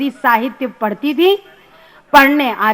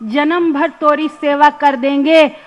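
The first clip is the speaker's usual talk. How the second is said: rustic student pleading in measured verse; comic poem recital. Acted. Student begging his English teacher for help, comic poem recital. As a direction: recite it in Hindi dialect, leaning on the openings.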